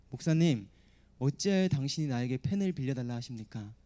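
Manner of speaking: lightly sneering question; a faint edge of contempt toward the pastor; understated mock-polite scorn; mild sarcasm. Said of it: "이런 뉘앙스인 거예요".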